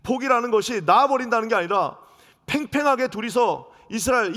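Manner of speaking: usual speaking voice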